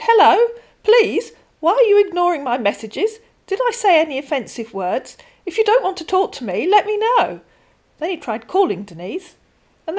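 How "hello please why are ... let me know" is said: much higher, louder pleading scammer; guilt-trip her; whiny scammer message. Acted.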